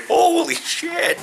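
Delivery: very high, slow laughing exclamation; laughing shock. Retold or imitated. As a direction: squeal it out while laughing. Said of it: "And I was like".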